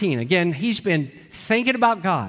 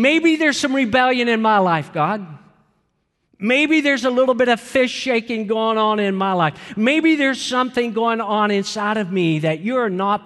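fervent prayer; 3 semitones higher, 3 dB louder than usual. Acted. Acting out David's searching prayer.

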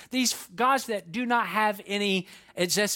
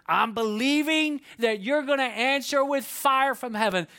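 fervent prayer; 3 semitones higher than usual. Acted. Elijah's prayer builds to its climax.

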